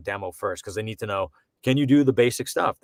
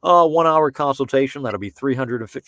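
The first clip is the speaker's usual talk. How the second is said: snooty sales pitch; 5 dB louder than usual. Retold or imitated. Mocking a pricey voice coach.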